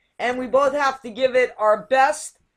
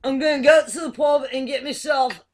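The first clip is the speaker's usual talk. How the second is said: put-on Scouse accent. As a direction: belt it out like a Scouser. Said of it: "I think it's more like this".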